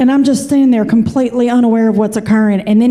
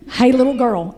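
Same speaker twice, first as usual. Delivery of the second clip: put-on falling Appalachian hey little girl, savored; Kentucky twang echo. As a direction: repeat it in her Kentucky twang. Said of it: "repeated for emphasis".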